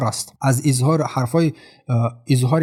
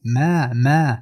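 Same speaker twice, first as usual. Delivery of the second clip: two-count stretch; slower than usual. Shown as a demonstration. Teacher showing the madd in ما, vowel held. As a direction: hold the long ā in ما.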